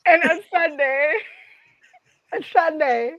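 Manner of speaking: badly faked British announcement; loosely mock-British; attempted British accent. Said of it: "That's my British".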